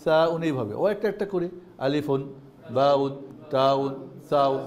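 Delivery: slow, drawn-out Arabic letter names; slow linguistic recital. Shown as a demonstration. Teacher demonstrating the linguistic Arabic pronunciation slowly. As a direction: draw each name out for the class. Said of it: "তখন কি হবে?".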